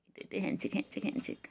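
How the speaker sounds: whispered play. Real, not acted. Whispered handshake game.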